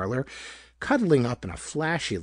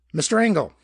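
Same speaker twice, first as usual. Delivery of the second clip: loud, raised call across the street; 5 semitones higher, 6 dB louder, faster than usual. A narrator's reading. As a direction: call his name to make him turn. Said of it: "He called".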